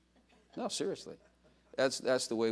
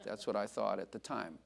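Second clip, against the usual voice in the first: quoting the sister; 3 semitones lower, 6 dB quieter than usual. Retold or imitated. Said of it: "She said".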